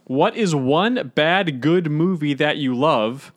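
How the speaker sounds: slow, stiff, stilted reading; mumbled subway intercom. Real, not acted. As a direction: read it out like a subway announcement. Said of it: "read them like you've never read out loud".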